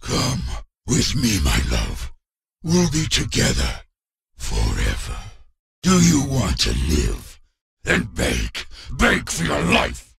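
a villain toying with his prey, mostly low; menacing villain. Acted. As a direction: captor taunting his victim, menacing and low. Villain taunting his captive.

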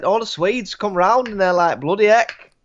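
mock Swede exclaiming; Swedish accent. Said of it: "I'm doing Swedish accents".

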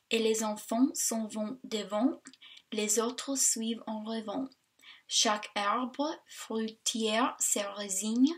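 reading French verse aloud in a careful American accent; poem in learner's French accent. Shown as a demonstration. Reading a French class poem to viewers, in a learner's French accent. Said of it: "that's my French accent".

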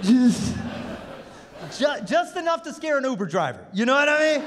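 high, laughing voice. Real, not acted. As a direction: laugh through it.

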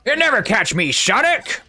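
hammed-up cartoon villain taunt; bad Eggman impression. Eggman taunting Sonic, badly imitated villain. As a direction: do a deliberately poor villain voice. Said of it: "That's my worst Eggman impression".

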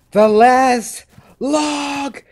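voice cracking. Real, not acted. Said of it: "Never mind the voice crack".

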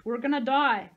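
loud, panicked cry; screamed. A narrator's reading. Sahalia despairs of escaping, screamed. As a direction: wail it out at full voice. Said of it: "she screamed".

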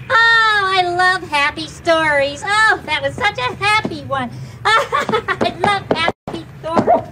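gushing delight breaking into laughter; happy. Acted. Story lover delights in the happy ending, happy. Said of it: "you're really good at being happy".

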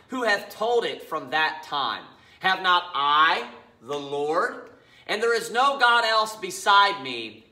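slow, emphatic Bible reading; scripture reading. Acted. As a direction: read scripture deliberately, weighting each phrase. Reads scripture aloud.

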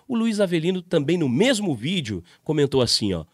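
normal talking voice

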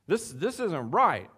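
high, loud, slow objection; outraged at the idea; indignant protest. Acted. Preacher voicing Peter's indignant objection.

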